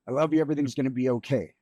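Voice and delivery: pushing through tears to get the words out; choking up. Real, not acted. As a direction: voice catching with real emotion, hurried. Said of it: "Take your time".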